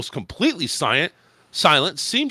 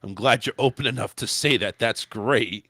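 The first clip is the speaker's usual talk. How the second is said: low, understated sarcasm; dry read of insincere praise; lightly sarcastic, pitched low; 5 semitones lower than usual. Retold or imitated. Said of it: "sarcastically said".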